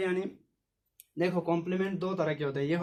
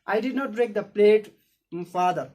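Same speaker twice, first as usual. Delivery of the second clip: loud slow protest; 3 semitones higher, 7 dB louder, much slower than usual. Shown as a demonstration. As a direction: insist you didn't do it. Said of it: "I protested". (ज़ोर से विरोध करते हुए)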